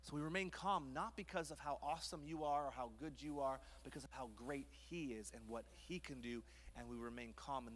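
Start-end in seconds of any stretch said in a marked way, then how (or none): none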